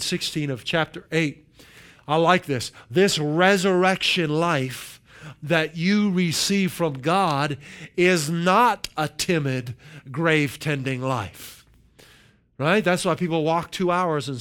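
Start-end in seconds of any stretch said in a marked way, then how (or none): 2.9-11.7 slow, weighted Bible reading; emphatic scripture reading. Acted. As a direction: read the verse out deliberately, phrase by phrase. Reads scripture aloud slowly and emphatically.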